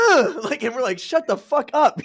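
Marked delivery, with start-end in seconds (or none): 0.1-0.4 loud high imitated yell of a kid; mock grunt. Tennis kids grunting outside the window, loud. 1.0-2.0 higher and louder, slow irritated order; mock annoyed snap. Tired roommates telling tennis kids to shut up, annoyed.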